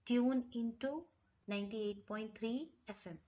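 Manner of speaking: slow, clear numbers; slow teacher demo; slow model phrase. Shown as a demonstration. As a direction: space out the numbers for learners. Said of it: "कैसे कहेंगे आप?".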